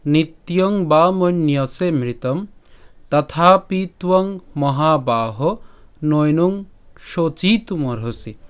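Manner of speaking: slow, measured verse reading; Sanskrit shloka recitation. Shown as a demonstration. Teacher presents today's shloka to learners, slow recitation. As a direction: recite slowly, drawing out the long syllables.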